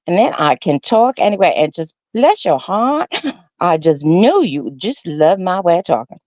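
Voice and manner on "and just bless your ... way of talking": slow sweet Tennessee drawl; Tennessee accent. Shown as a demonstration. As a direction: lay on the Tennessee charm, slowly. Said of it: "I can do a Tennessee".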